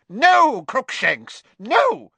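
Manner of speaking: high, loud shouted scolding; alarmed cry. A narrator's reading. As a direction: cry out to stop the cat. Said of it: "cried the witch".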